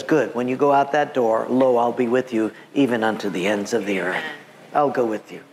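low, calm promise; reassuring Jesus, lightly voiced. Jesus sending believers out the door, reassuring. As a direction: settle into a low, sincere assurance.

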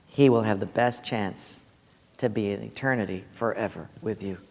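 low, soft and tender as God speaking. Retold or imitated. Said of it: "God says".

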